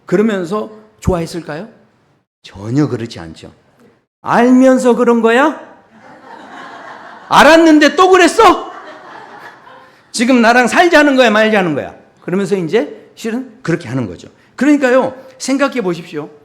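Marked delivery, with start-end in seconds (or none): 4.2-11.9 loud, high outburst; acted indignant yelling at a husband; furious wife. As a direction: let each accusation ring out high and loud. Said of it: "그 이야기를 들은 아내가".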